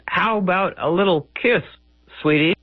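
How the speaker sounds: lightly voiced ugly bride, flirting; coy crone voice. Ragnall coaxing her new husband in bed, coy crone voice. Ragnall asks Gawain for a kiss.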